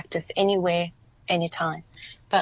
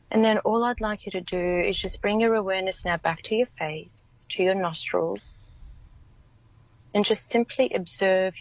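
guided meditation. Acted.

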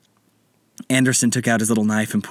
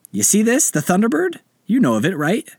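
pirate captain voice; 10 semitones higher than usual. Acted.

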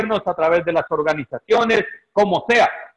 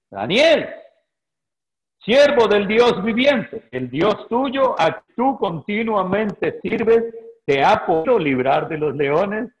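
slow, mournful call; sad voice. Acted. King calling down to Daniel in the lions' den, slow and sorrowful. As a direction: call out slowly, grieving, as if into the pit. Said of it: "llamó a voces a Daniel con voz triste".

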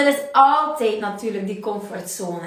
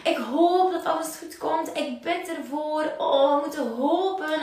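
hopeful pleading; 4 semitones higher, 3 dB quieter than usual. Retold or imitated. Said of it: "zo'n mentaliteit van".

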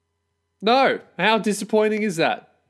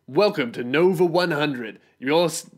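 attempted radio host impression. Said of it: "I can't even do the fucking impression".

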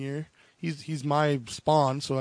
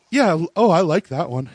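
retold delighted approval; 6 dB louder than usual. Wife picking a cologne she likes, imitated with delight. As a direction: act out her sudden keen approval.

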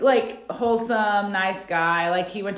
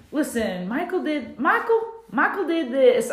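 mocking the friend; 6 semitones higher than usual. Friend warning Angela about Michael, in a high mock voice. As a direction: squeal it like the friend spilling the news. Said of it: "I can't even do it".

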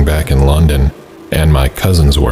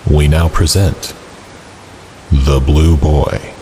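horror host. Acted. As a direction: welcome the ghouls like a creepy TV host. Horror host intro, then story narration.

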